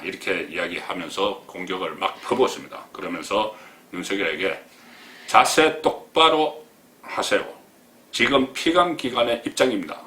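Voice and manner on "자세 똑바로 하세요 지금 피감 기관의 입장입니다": mock scolding. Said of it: "면전에 대고 막 공격을 했습니다".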